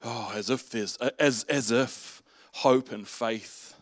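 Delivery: mock world-weary dismissal; weary eye-rolling. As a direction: grumble it under your breath like a doubter. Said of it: "people probably rolled their eyes occasionally going".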